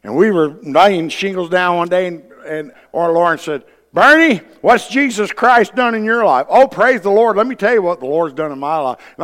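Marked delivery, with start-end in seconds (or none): 3.9-9.0 eager gushing. Retold or imitated. Eager Christians quoted in work story.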